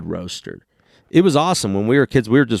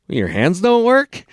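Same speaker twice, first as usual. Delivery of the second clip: rude waiter; 7 semitones higher, slower than usual. Retold or imitated. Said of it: "And he goes".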